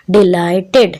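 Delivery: Delighted split into syllables, ending in a separate "ted"; distinct "id" ending. Shown as a demonstration. Teacher demonstrating the "id" sound in Delighted, distinct ending. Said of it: "इड की sound दे रहा है".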